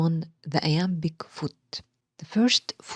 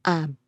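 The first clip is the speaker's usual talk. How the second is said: "ab" said alone as the stressed part; firm, separate "ab"; stressed first syllable. Shown as a demonstration. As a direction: isolate "ab" with full weight. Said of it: "the stress is on the first syllable".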